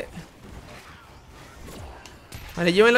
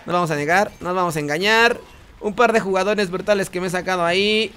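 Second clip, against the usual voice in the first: normal talking voice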